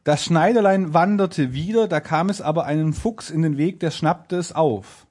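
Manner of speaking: deliberate storybook reading; fairy-tale narration. A narrator's reading. Narrator introducing the fox to the audience, storytelling. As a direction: read it out like a bedtime tale.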